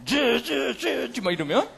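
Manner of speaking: slow, soft mock buzz of soldiers outside; imitated enemy noise. Preacher imitating the besieging army's noise, slow and soft. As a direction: lightly hum the soldiers' racket. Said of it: "그런 소리가 막 밖에서".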